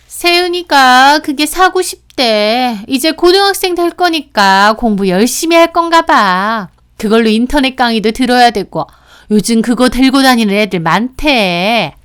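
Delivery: lightly voiced sister-in-law, coaxing for her child; 살짝 연기한 시누이. (살짝 높인 시누이 목소리)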